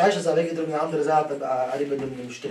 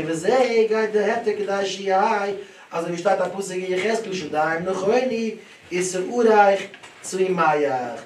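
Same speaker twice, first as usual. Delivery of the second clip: raised, drawn-out singsong of Talmud study; lesson recitation; 5 semitones higher, 5 dB louder than usual. Acted. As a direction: recite it as a lilting study chant. Reciting the learned text.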